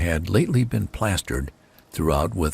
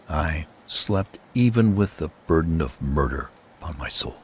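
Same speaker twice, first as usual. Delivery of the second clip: ordinary delivery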